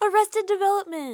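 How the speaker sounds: high, thrilled, excited blurting yell. Calling out the show another speaker just quoted: excited shout. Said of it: "you don't have to yell the reference".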